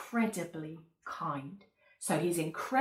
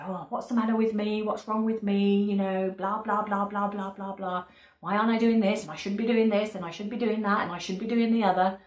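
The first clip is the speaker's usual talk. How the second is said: fretful run-on self-criticism; self-berating; 3 semitones higher, 3 dB louder than usual. Acted. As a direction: nag yourself in a quick, rising rant. Acted self-critical inner talk.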